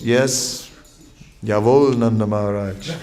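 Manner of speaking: laughing, eager mock-obedient yes; playful servant reply; eager puppy obedience. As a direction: answer like a keen puppy dog, chuckling. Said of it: "like a nice domesticated puppy dog".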